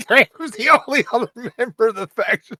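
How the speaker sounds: laughing through the line, high and loud; can't stop laughing as you say it. Real, not acted. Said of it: "That's hysterical".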